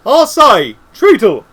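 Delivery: calling out. A narrator's reading. Unseen wizard calls to Treatle.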